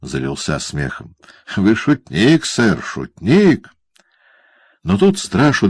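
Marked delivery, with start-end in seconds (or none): 1.6-3.7 much higher, slow and ingratiating; obsequious lawyer's question; fawning lawyer. Acted. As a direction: grovel politely to Quilp. Brass laughs along.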